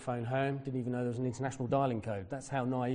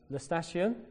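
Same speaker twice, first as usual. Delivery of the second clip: raised, questioning lift on "station"; tentative foreign-word question; 6 semitones higher, slower than usual. Retold or imitated. Asking Italians for the railway station, tentative question. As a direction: try "La station?" as a higher-pitched question.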